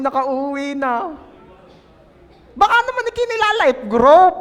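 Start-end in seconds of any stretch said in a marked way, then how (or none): 2.6-4.3 high, loud laughing jab; laughing tease. Real, not acted. Pastor laughing while teasing the congregation. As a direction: tease them through laughter.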